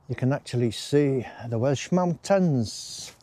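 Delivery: put-on slow, half-hearted Welsh accent; a slow, light stab at a Welsh accent; mock Welsh accent. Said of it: "It was actually supposed to be Welsh".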